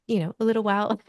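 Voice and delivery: words breaking into a laugh. Real, not acted. Mother recalling her wish to hear baby cry, laughing. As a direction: laugh through the end of the phrase. Laughs while telling birth story.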